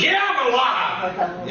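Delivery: retold shouted answer. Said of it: "I said".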